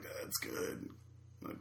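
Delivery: very soft, voiceless retold verdict; feigned approval. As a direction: barely get the polite words out. Retold polite verdict on dubious drink.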